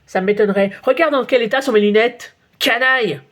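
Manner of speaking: mild mock yell. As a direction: tell off the rascal, half shouting. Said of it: "hurle le photographe". (le photographe gronde Nicolas, cri modéré)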